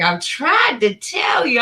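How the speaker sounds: quoting her again. Retold or imitated.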